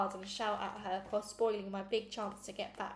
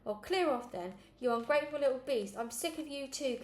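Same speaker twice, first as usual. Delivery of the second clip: put-on louder, higher angry yell at the child; 4 semitones higher, 3 dB louder than usual. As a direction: let it burst out in a fury. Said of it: "Cam yelled".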